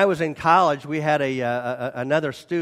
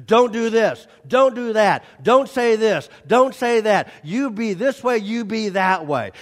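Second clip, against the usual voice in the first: scolding parent; 3 semitones higher than usual. Retold or imitated. Parent reprimanding child.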